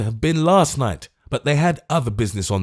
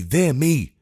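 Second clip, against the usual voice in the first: the testy sigh said again, falling; tetchy Lord Mayor repeating himself; 5 semitones higher than usual. Acted. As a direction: grumble it once more. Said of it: "replied a testy voice".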